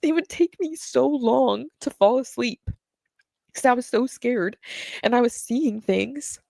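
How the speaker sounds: real tears welling up as she speaks; choked-up voice breaking into crying; starting to cry. Real, not acted. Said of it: "sorry, I'm just gonna cry".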